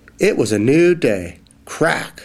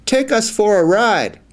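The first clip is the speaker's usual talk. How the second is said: eager call; 9 semitones higher than usual. Acted. Mice call out to Fox.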